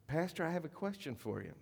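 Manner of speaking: a hint of a little girl's voice; young girl. Young girl coming up to the pastor with a question, lightly imitated child voice. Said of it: "one of the young girls".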